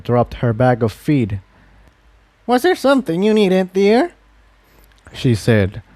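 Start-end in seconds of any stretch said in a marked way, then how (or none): 2.5-4.1 put-on higher, sweet old-lady voice; an elderly pony calling out kindly; old mare asking a stranger what she needs. Elderly mare greets Tiptoe.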